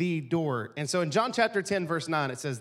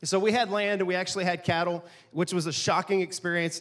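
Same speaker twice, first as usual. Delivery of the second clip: ordinary delivery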